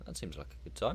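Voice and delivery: talking through a yawn; words stretched by a yawn. Real, not acted. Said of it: "I haven't yawned for about two hours".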